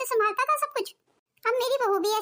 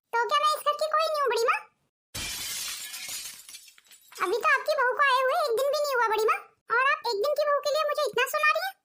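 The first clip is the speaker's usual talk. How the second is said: hurt indignant protest; 4 semitones higher than usual. Acted. Pragati feels scolded by aunt.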